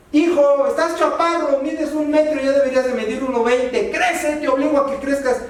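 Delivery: un padre regañón de broma, más agudo; padre exigente fingido. Pretend. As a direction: exige al hijo que crezca, medio en burla. Padre regaña al hijo bajito. (padre que regaña al hijo en broma, tono exigente)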